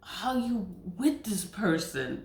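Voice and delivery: drawn-out "Ooh" then a slow judging question; mock disbelief at a partner's choice; sassy, unhurried dig; slow incredulous jab. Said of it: "I'm like".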